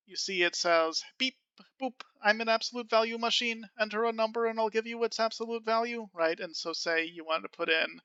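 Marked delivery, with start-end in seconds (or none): 1.2-6.1 raised, mechanical robot voice. Acted. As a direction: read it like a beeping robot. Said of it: "I made it a robot voice".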